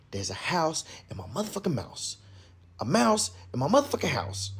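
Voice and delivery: retold panic without the scream; acted tongue-tied fluster. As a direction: stumble over the words, mock rattled. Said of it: "I couldn't even talk".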